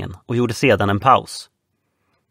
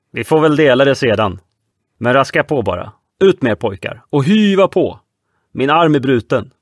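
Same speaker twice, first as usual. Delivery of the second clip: barked orders; 4 dB louder than usual. Acted. Red Nelson giving orders.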